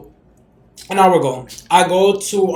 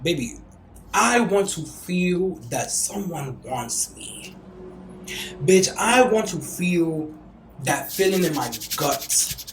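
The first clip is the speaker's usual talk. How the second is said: slow longing; much slower than usual. Real, not acted. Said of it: "longing confession".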